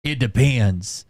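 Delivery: slow, terse stern reply; a hint of a stern old trucker; stern guy. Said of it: "He was real stern".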